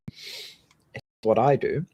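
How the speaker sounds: "I" stressed slowly with a rising tune; slow, lean on "I" in "It's what I do". Real, not acted. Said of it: "I'm not telling you".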